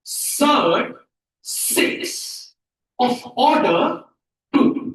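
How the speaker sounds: deliberate pauses between the words; word-by-word reading. Shown as a demonstration. Teacher answers how to pronounce it, word by word. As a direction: model it piece by piece. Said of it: "इसको कैसे pronounce करें".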